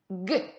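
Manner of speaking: G as one short hard "gue"; hard G sound. Shown as a demonstration. Teacher models after "à toi", G as hard "gue". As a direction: sound out G as "gue", not its letter name. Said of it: "Pour faire le son".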